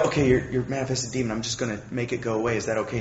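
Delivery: hushed, gentle leaning-in voice; quiet demon casting. Retold or imitated. Speaker quietly offering to cast out the seatmate's demon. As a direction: keep it low so the plane won't hear. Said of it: "the quietest demon casting out of history".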